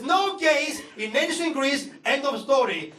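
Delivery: slow, firm mock denial; half-hearted imitation of an angry father; angry dad, mild. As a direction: lay down the law like a stubborn dad. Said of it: "my dad was very angry".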